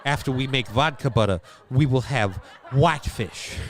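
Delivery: mock Russian accent; lightly hammed-up Russian accent; acento ruso. Joke Russian voice serving fish.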